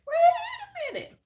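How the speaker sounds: squealed very high through laughter, slow; laughing disbelief. Retold or imitated. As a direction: wait a minute, cracking up. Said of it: "I was like".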